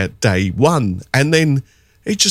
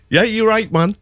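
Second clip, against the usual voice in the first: higher mock Geordie voice; imitating a Geordie shopkeeper; Geordie accent; 10 semitones higher than usual. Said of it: "speaking in the Geordie dialect".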